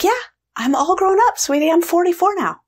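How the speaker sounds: put-on high, fond talking-to-a-child voice; sweet reassurance. Grown woman to her amazed younger part, sweetly reassuring.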